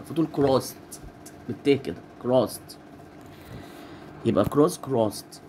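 crossed said as krost with a t ending. Shown as a demonstration. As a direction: end crossed on a t. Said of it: "الإي دي تتنطق تاء".

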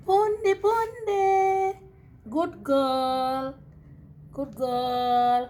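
drawn-out sing-song praise; coaxing a pet. Real, not acted. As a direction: soothe the dog with long, stretched vowels. Coaxing the angry dog. (malambing na pag-amo sa aso)

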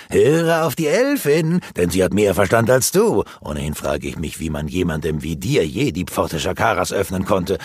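a hint of a sneering villain, mocking; mild mock sneer of a wizard; lightly voiced taunting sorcerer. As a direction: tease him with scorn, barely changing voice. Rurak taunts Granok.

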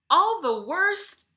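All drawn out very high and loud, rising; slow, affronted disbelief; outraged exclamation. A narrator's reading. An offended Frenchman echoing her insult in outrage. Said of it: "I exclaim".

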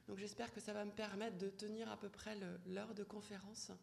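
hoarse voice from a pollen allergy; cavernous voice. Real, not acted. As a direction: speak through a hoarse, husky throat. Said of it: "avec cette voix caverneuse qui est la mienne aujourd'hui".

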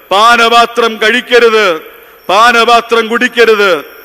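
emphatic, admonishing pulpit delivery; forceful preaching. Real, not acted. Preacher warning the unreconciled away from communion, forceful preaching. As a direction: drive each warning home to the congregation.

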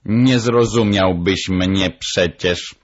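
slow, lightly voiced parrot; a hint of parrot character; matter-of-fact parrot. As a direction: state the obvious as the bird. Parrot answers the doctor.

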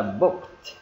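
"booked" ending in a T; final T sound. Shown as a demonstration. Teacher showing learners the T ending of "booked", final T sound. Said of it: "Là âm T".

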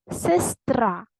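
сестра slowly, with a long final А; stress on РА. Shown as a demonstration. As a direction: hold the last syllable of сестра. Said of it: "Це вам приклад". (сестра з протяжним наголосом на останньому складі)

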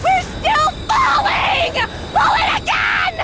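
frantic yell while falling; panicked shouting. Acted. Falling, panicked crew yelling.

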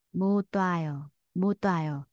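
low-pitched 못 와요, linked with a t sound. Shown as a demonstration. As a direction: demonstrate 못 와요 joined through a t. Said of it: "nối âm lên thành chữ tờ".

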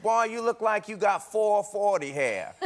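lightly voiced Southern uncle; Uncle Ray. Host quotes his uncle on messy hair, lightly imitated uncle. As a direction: tease with an uncle's drawl. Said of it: "My Uncle Ray used to say things like this".

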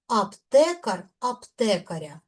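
Аптекар, аптекаря stressed on "те"; stress on root. Shown as a demonstration. Teacher demonstrating unstressed suffixes, stress on root. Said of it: "Наголос падає на корінь".

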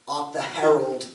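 slow mock Cockney, "Herald" said with a sounded H; imitating the theatre Cockney that puts an H on "Herald"; mock Cockney accent. Grandmother's theatre crowd singing carols in mock Cockney. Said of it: "That's Cockney".

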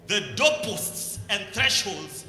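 slow, declaimed scripture with weighty pauses; scripture reading. Acted. Preacher reads the temple vision to the congregation, loud declamation. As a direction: proclaim the verse out loud, phrase by phrase.

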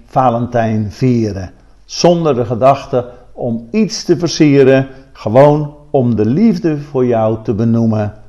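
measured Valentine verse read aloud; poem reading. Acted. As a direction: read the rhyme out line by line, with pauses. (voordracht van een valentijnsgedicht)

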